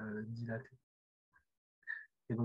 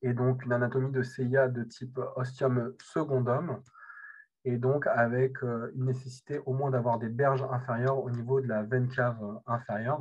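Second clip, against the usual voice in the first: louder lecture voice; speaking up; 5 dB louder than usual. Real, not acted. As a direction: project for the far listeners. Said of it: "je peux parler plus fort".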